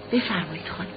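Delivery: low, softened deferential invitation; quiet. A narrator's reading. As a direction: say it softly and respectfully, voice dropped. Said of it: "آهسته گفت". (آهسته و مؤدبانه)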